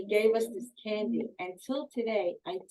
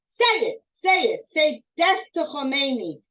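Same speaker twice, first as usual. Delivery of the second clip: much higher and louder, yelled at the car; yelling demand; 6 semitones higher, 9 dB louder than usual. Retold or imitated. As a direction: scream it in their faces. Man screaming through car window.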